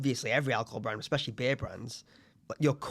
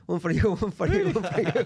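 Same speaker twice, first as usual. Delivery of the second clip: put-on Italian accent; 6 semitones higher, 4 dB louder than usual. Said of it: "Didn't pull one for my dad".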